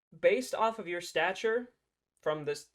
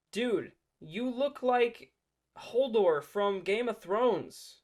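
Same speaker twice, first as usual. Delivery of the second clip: mocking; 5 semitones higher, 3 dB louder, slower than usual. Real, not acted. Mocking the man in the clip.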